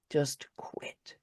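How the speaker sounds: a near-silent whisper of giving up; final whisper. Retold or imitated. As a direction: let the last words barely escape. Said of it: "And it said".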